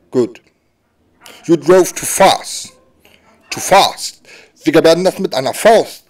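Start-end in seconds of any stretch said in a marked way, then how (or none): 1.4-4.2 slow, over-articulated English for lip-readers; lip-reading English. Acted. Hearing policeman talking English to a deaf driver, slow and deliberate. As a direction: spell it out slowly for someone reading your lips. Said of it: "lest meine Lippen ab".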